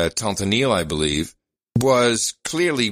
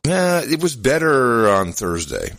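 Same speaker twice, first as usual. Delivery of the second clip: voice cracking. Real, not acted. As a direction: voice breaking mid-sentence. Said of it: "I just cracked".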